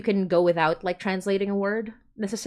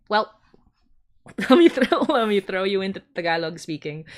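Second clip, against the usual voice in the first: laughing, louder mischievous offer; playful laugh; 3 semitones higher, 6 dB louder than usual. Retold or imitated. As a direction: tease them as you throw them in. Voicing herself, laughing.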